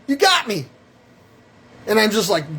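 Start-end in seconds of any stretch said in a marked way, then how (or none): 0.0-0.7 mock surrender. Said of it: "I pretended".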